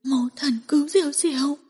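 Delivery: put-on small child begging through tears; crying like a child. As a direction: wail it like a frightened little girl. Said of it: "khóc như một đứa trẻ".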